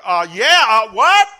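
loud, startled stammer; baffled baker. Retold or imitated. Baker at the counter answering the pastor, baffled. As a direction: stumble over it, confused. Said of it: "that guy over there to the counter".

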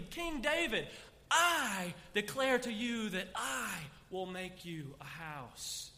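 slow, loud first-person proclamation; God's declaration. Acted. Preacher repeating God's promise in first person, slow and proclaiming. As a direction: say it again as God, now as I. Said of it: "He switches to the third person and repeats it".

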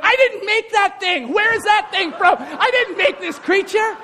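high-pitched mock disbelief; indignant God. God disowning the cat Adam named, indignant. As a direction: disown it in hammed-up bafflement. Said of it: "can't you just picture God standing there".

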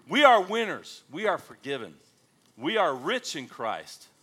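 loud ringing declaration; proclaiming. Real, not acted. Preacher declaring victory to the church, loud. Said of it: "proclaiming to congregation".

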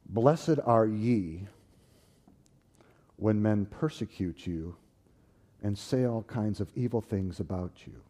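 very slow, solemn reading; scripture reading. Retold or imitated. Reading the Beatitudes in the King's English, solemn. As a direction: read it like holy writ. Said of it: "in the King's English".

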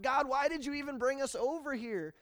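high, loud complaining plea; distraught whine. Acted. Joshua complaining to God in despair. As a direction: whine at God like a let-down child. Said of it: "He's distraught".

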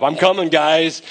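mildly fired-up leader calling to his men. Acted. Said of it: "He's fired up".

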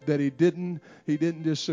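ordinary talk, nothing marked

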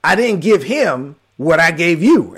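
voice of the Holy Spirit. Retold or imitated. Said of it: "I hear the Holy Spirit say again".

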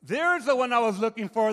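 loud, gloating devil; a hint of a gloating devil. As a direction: crow over the prey you found. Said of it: "the devil said".

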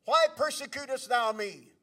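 loud, booming call from heaven. Retold or imitated. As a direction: thunder it out as God calling a man by name. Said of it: "And that voice said".

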